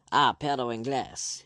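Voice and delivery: a Spaniard's angry Spanish shout. Acted. Spaniard shouting at the Englishman blocking him, angry shout. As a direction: bark it in Spanish with rage. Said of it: "he shouted".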